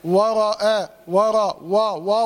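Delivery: ورا with a dark, thickened w vowel; faulty emphatic وا; wrongly heavy waw. Shown as a demonstration. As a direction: round the first vowel toward "waw", as a mistake. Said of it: "ما تقوليش بقى".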